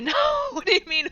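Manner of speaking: high laughing squeal of disbelief. Real, not acted. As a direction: laugh it out, incredulous. Reacts to chat mix-up.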